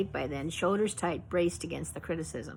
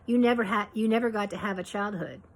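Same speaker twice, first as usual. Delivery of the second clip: pitying church lady; 3 semitones higher than usual. Retold or imitated. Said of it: "say something like".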